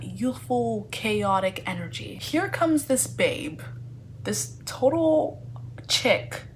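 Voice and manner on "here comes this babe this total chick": mock glamorous. Mock-dramatic entrance of Lizzie.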